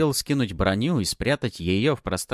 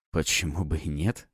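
ironic; 4 semitones lower, 3 dB quieter than usual. Acted. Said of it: "с иронией переспросил я".

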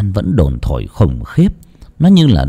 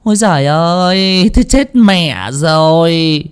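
startled exclamation; 11 semitones higher than usual. A narrator's reading. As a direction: exclaim in shock and dismay. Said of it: "thảng thốt kêu lên".

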